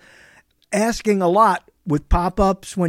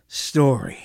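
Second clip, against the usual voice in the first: whispered word; 7 semitones lower than usual. Real, not acted. Dramatic word in big claim.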